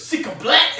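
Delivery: high, explosive mock shout; imitated Russian outburst. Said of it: "and he just goes".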